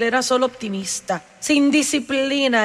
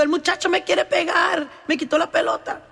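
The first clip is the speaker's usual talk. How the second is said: put-on higher, yelling child's complaint; 5 semitones higher than usual. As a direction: yell it like a kid running home. (niño gritando que le quieren pegar)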